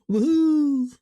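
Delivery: high, loud joyful whoop; excited whoop. Real, not acted. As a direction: shout for joy. Cheering queue progress.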